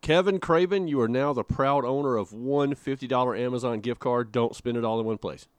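proud game-show style winner announcement; prize announcer. Pretend. Host congratulating the giveaway winner, announcer style. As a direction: lift and punch the winner's name.

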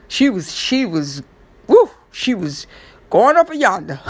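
whooping tease. Retold or imitated. Teasing about Nicole feeling alive, a mock whoop.

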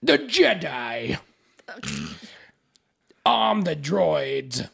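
put-on very slow drawn-out Russian accent; menacing slow Russian villain; bad Russian accent. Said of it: "a bad Russian accent is what he has".

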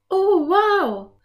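high, loud thrilled exclamation; enthusiastic cry. A narrator's reading. Anne thrilled by the book, high excited cry. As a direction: burst out in delight. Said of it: "rief Anne begeistert aus".

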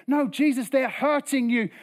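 high, loud pleading objection; urgent protest. Acted. Onlooker begging Jesus to stop forgiving, urgent protest. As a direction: cut in, trying to stop him.

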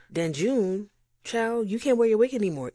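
dramatic complaint. Real, not acted. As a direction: play up the outrage.

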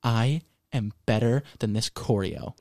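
low haughty imitation of a diva; diva attitude. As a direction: sniff it out like an offended star. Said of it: "And you go".

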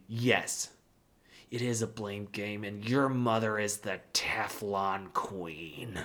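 imitating a nasty dad, low and slowing down; nasty retort. Husband blames mother to his son, nasty. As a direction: drag out the accusation in a low mock-nasty voice. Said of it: "he was nasty".

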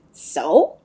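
curt snapped so. Acted. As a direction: snap it short. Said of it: "she snapped".

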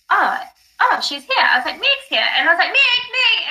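high, excited calling out to her friend. Retold or imitated. Calling out to her friend, high and excited. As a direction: call her name up high, thrilled.

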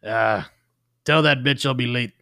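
a loud, dismissive Boston cop; gruff detective. Acted. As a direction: brush off the wife like a tough cop. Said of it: "like a grimy old detective".

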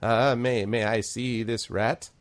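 lightly voiced elderly gnome priest; tentative gnome character voice; hesitant old gnome. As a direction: ask haltingly and slowly to have a look. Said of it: "He's like".

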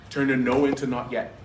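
firm, punchy repeat. Shown as a demonstration. Pastor repeating the key phrase to the church, firmly. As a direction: hit the repeat harder.

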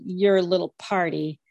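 slow, drawn-out and talking down; condescending. Retold or imitated. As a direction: mimic her superior tone, slowly. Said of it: "The superior way Pam said".

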